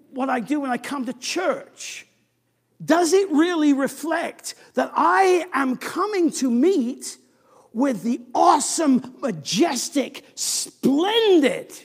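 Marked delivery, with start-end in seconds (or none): 2.8-11.7 louder, climbing preacher's build; rising awe. Real, not acted. Preacher to congregation, rising in awe. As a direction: build it up with awe toward the King.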